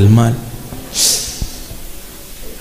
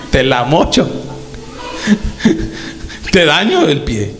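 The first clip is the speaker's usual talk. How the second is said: quoting God. Retold or imitated. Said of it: "Dios dice".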